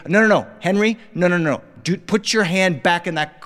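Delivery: dad heading off a back-seat fight; rattled repeated warnings; mildly frantic scolding. Acted.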